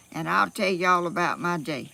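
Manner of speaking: talking while out of breath; winded, catching her breath. Real, not acted. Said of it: "I'm out of breath".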